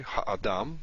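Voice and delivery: ha'adam with a break after ha; ha'adam split at the first syllable. Shown as a demonstration. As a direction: pause briefly in ha'adam, ha-adam. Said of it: "we have a syllable break".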